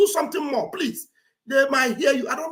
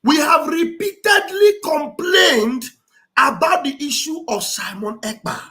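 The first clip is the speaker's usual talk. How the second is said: loud mock quoting; 5 dB louder than usual. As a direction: quote it back loudly and pointedly. Re-quotes the played clip mockingly, loudly.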